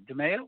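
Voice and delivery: DeMaio with MAY in the middle, rising; tentative "deh-MAY-oh" for DeMaio; questioned pronunciation. Shown as a demonstration. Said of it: "Is it DeMaio or DeMaio".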